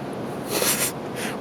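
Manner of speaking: soft unvoiced chuckle; quiet breathy laugh. Real, not acted. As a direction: laugh under your breath. Laughing at friend.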